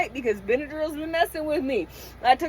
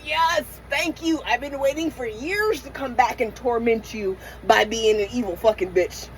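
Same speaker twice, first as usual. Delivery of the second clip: evil demon voice; 3 dB quieter than usual. Retold or imitated. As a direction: relish it like a demon invited back. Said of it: "that demon will be like".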